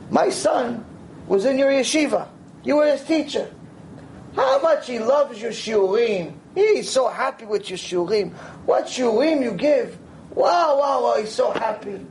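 put-on a simple old lady beaming with pride; gushing old woman. Old woman praises Rav's lessons.

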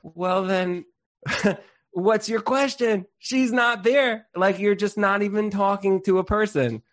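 lightly voiced wry rabbi; the Rebbe. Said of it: "He goes".

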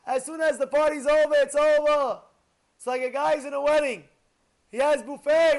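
loud, high, urgent sermon voice; fervent preaching. Acted. Rabbi urging listeners to grab every mitzvah, urgent preaching. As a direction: drive home the grab-the-mitzvot message.

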